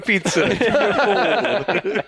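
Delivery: hammed-up Brooklyn pizza guy; brooklyn accent. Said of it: "Went from Tony to Brooklyn".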